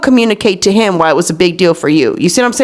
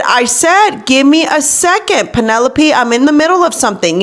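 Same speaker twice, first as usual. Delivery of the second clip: mildly exasperated repeat, pitched up; retold firm request for patience, higher voice; insistent mom; 5 semitones higher than usual. Busy mom to nagging daughter, mildly exasperated insistence.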